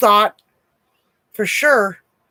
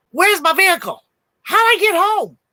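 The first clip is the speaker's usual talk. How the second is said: panicked questions; 10 semitones higher, 3 dB louder than usual. Retold or imitated. Waking the customer in panic.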